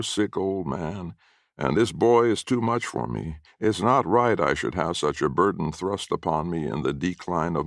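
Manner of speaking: lightly voiced self-pitying old man, whining; a hint of a wheedling old codger playing sick; mild put-on feeble whine. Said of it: "he'd be whining things like".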